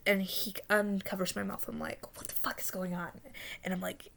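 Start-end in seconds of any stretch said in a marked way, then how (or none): 2.2-3.1 very soft, breath-only question; retold whisper. Dreamer afraid the killer comes back, whispering. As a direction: whisper urgently so nobody overhears. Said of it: "and I'm whispering".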